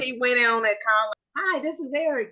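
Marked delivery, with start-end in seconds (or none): 1.4-2.3 much higher, bright greeting; good energy. Retold or imitated. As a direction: come in with energy. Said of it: "went in with that good energy".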